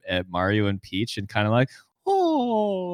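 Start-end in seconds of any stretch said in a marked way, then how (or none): 2.1-2.9 high, drawn-out wistful "oh"; Luigi's longing. Acted. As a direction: pine for what the couple has. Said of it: "and he's, like, looking up".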